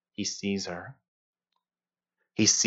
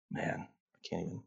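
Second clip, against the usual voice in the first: voice cracking; 6 semitones lower, 17 dB quieter than usual. Real, not acted. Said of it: "my voice just cracked".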